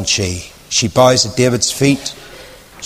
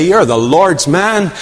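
pleading encouragement; 9 semitones higher than usual. Retold or imitated. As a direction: urge him on to trust.

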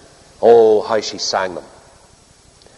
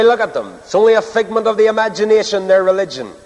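scornful; 8 semitones higher than usual. Retold or imitated. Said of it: "You can say".

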